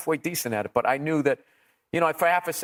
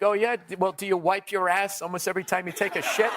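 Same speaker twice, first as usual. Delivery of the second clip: deadpan punchline; 5 semitones higher than usual. Retold or imitated. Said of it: "my punchline to that was like".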